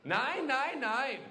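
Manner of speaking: hammed-up furious German counting nine; mad German. To his late wife, a mock angry rant. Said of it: "I got a little mad at her".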